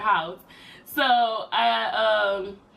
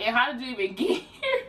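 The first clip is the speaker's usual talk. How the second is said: laughing through the words; 4 semitones higher than usual. Real, not acted. Laughing while quoting boyfriend.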